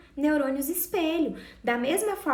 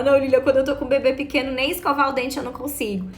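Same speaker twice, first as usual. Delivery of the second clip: louder, fast mock protest from a frazzled new mom; imitating an exhausted mother; 8 dB louder, faster than usual. Mother of a newborn protesting to the coach, loud and fast. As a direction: blurt it out like a mother at her wits' end. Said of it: "Aí você fala".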